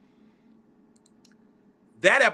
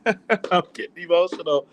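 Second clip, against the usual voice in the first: emotional laugh. Real, not acted.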